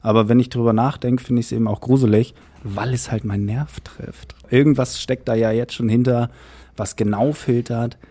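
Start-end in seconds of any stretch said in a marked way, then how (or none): 2.6-4.3 slower, softer on "Nerv trifft"; understated, drawn-out unease; slow, pointed. Real, not acted. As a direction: let "meinen Nerv trifft" sink in slowly, softly. Second take: finds it creepy.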